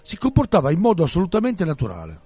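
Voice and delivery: measured read-aloud narration; storyteller setting out a strange scene; story narration. A narrator's reading. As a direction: read the novel aloud to listeners.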